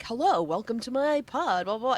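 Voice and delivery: a light podcast-host greeting, lightly put on; welcome voice. Lightly imitating the friend's welcome voice to the host. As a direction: warmly greet listeners to the pod, mildly. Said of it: "a welcome voice".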